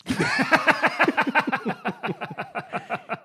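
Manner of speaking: loud laughing fit; real laughter; high laugh. Real, not acted. Laughing at his own story about his son.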